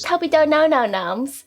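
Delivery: Essex vowels, practised copy; attempted Essex accent. Shown as a demonstration. Student proudly repeating practice line, attempted Essex accent. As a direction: have another go at Essex. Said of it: "can we do it again?".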